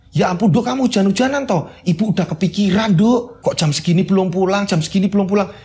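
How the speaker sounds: lightly voiced worried mother scolding her child; ibu cemas. Ibu cemas menyambut anak pulang. (ibu sedikit mengomel karena cemas)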